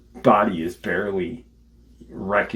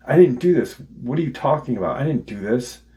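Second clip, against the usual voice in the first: high-pitched, insistent retold protest; acting out an accused kid's denial; 5 semitones higher, faster than usual. Acted kid denying the killing.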